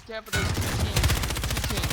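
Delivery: loud urgent callout; yelling across the room. Real, not acted. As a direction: call it out to the squad. Warning teammates mid-fight.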